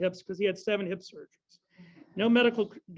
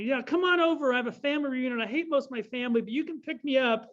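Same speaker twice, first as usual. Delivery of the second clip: higher-pitched, animated phone quote; imitated brash invitation; 5 semitones higher than usual. Ed Asner phones to invite a friend over, imitated brash urging. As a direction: act out a pushy friend's invitation.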